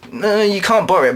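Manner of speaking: high-pitched character refusal; David refusing. Acted. David refuses to lend Haley the mallet, high voice.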